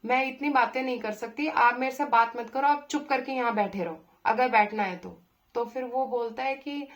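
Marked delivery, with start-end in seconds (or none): 0.1-5.2 firm, rising anger, louder toward the end; telling him off, getting fed up; retold anger. Woman on a bus telling a pestering stranger to stop, angrily. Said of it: "तो मुझे तब गुस्सा आया".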